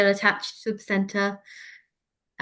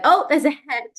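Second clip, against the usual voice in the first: shocked call, higher and louder; startled cry; 8 semitones higher, 6 dB louder than usual. Retold or imitated. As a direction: gasp the news out in surprise. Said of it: "and I went".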